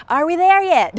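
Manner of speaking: put-on high, loud child's whine; little kids. Little kids on the trip asking dad, high loud whine. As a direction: pester like an impatient kid. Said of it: "Those little kids on the".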